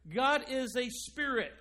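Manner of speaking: emphatic God, preached loud; stress on God. Shown as a demonstration. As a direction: hit the word God hard. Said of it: "Now notice the emphasis on the right here".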